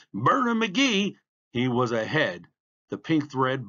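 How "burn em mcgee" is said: high, loud, drawn-out cheer. A narrator's reading. Fan's cheer echoed as the runner surges, called out. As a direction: sing out the fan's call at full pitch. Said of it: "before you could say".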